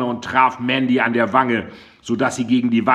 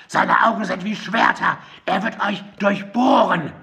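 much higher, eerie warning voice; frantic raving; 11 semitones higher than usual. A narrator's reading. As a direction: warn them with wild-eyed dread. Raving woman dragged away.

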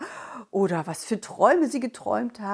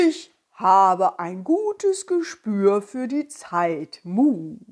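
slow, lightly voiced cow; 4 dB louder, much slower than usual. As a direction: talk like a gentle slow cow. Cow figure speaks.

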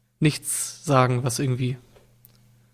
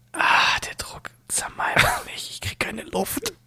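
hyperventilating; 7 semitones higher, slower than usual. Pretend. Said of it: "ich soll irgendwas machen".

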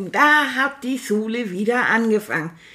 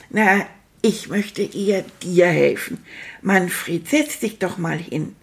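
Lehrerin nachgemacht; 3 semitones lower than usual. Retold or imitated. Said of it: "Frau Stöller hat ... zu mir gesagt".

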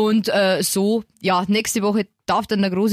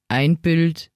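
imitated bedtime counting; 6 semitones lower, much slower than usual. Re-enacts weary bedtime counting.

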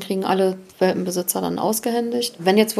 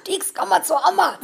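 high sing-song dog call; 8 semitones higher than usual. Retold or imitated. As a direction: coax the dog sweetly, high. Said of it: "Das war das Beste in der Hundeschule".

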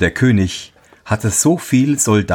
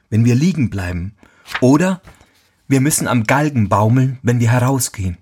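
anxious soldier voice; 4 semitones higher than usual. Acted. Soldiers answer the dragon.

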